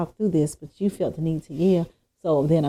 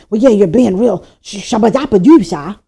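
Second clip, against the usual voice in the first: mocking tone; 3 semitones higher, 8 dB louder than usual. Mocking someone's tone.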